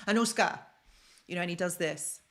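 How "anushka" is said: put-on dad's Slavic-accented call, a little louder; imitated Polish accent. Daughter imitating how her dad addresses her, Polish accent. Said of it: "when he talks to me like this".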